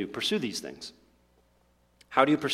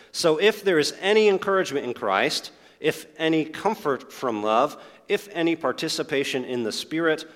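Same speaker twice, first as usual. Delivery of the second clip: measured reading of Paul's letter, a touch raised at the start; scripture reading. Acted. Preacher reading Paul's appeal aloud to his church, measured and solemn. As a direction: read the verse out to the church with weight.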